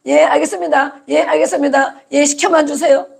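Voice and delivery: a hint of a slave saying yes to every order; obedient slave. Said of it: "노예로 팔려가서는". (순종하는 노예처럼 살짝 높여서)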